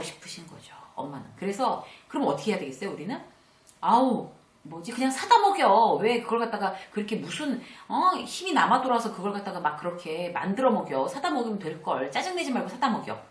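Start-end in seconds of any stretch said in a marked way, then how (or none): 3.8-13.2 irritated daughter snapping. Retold or imitated. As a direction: dismiss mom's effort with loud annoyance. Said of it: "정말 말이 안 통하는 딸".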